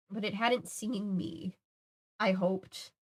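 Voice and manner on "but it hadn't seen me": slow and hushed; soft retake. Shown as a demonstration. Reader retries the line more softly. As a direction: let it fall away softly.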